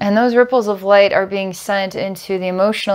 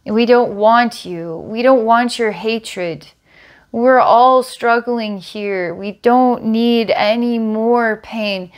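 a brute telling off the creature, word by word; brute scolding; 2 semitones higher than usual. Retold or imitated. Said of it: "looks at it and says".

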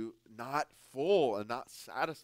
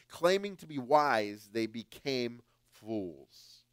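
scripture reading; 3 dB louder, slower than usual. Acted. Preacher reads scripture aloud.

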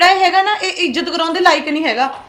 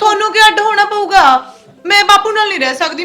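heated protest; 2 semitones higher, 4 dB louder than usual. Acted. Quarrel with sister-in-law.

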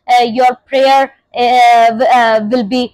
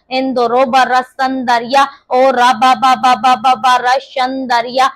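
speaking in tongues. Real, not acted. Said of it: "when you pray in the spirit of tongues".

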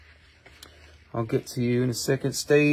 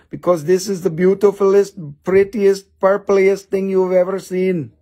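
gushing; 5 semitones higher, 5 dB louder than usual. Acted. Gushing sales pitch over stone.

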